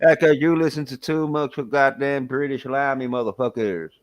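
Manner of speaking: put-on American tirade; American accent. Brit teasing friend about his listening, in mock American accent. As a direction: scold in a hammed-up American accent. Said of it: "He can do a better American accent".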